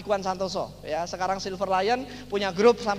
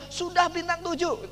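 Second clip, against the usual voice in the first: "Sudah bintang tujuh" pitched high and drawn out; high, stretched, awe-building delivery of "Sudah bintang tujuh"; all-out promotional hype; 7 semitones higher than usual. Retold or imitated. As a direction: sell "bintang tujuh" slowly, as a grand title. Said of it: "Saya promosi habis-habisan".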